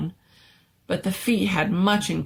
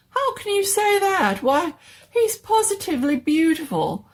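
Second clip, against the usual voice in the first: very high, loud protesting doctor; indignant mad doctor; 6 semitones higher, 3 dB louder than usual. Acted. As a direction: defend the creation, shrill with hurt pride.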